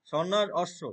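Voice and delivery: সন্ন্যাস অশ্ব said as two separate words; careful Sanskrit split of সন্ন্যাস অশ্ব; pronunciation demo. Shown as a demonstration. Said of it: "দুই শব্দটা আলাদা হয়ে যাবে".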